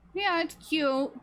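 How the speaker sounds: high, slow silly voice of her dad; dad's funny voice. Retold or imitated. Imitating her dad teasing her about the sweatshirt, high and slow. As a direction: stretch it out like a goofy dad. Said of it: "He does it in this, you know, really, like, funny voice".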